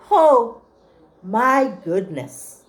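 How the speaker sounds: loud Oh, then slow my goodness; delighted rabbit exclaiming; excited exclaim. Acted. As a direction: burst out, then savor it.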